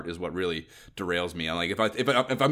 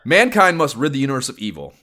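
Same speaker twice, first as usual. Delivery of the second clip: booming trailer narrator, a bit louder; old sci-fi announcer; 5 semitones higher, 7 dB louder than usual. Acted. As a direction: read it like a dramatic game intro. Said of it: "And the copy reads".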